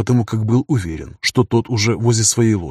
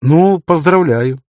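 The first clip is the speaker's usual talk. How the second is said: smirking; 6 semitones higher, 5 dB louder, much slower than usual. Acted. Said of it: "усмехнулся тот".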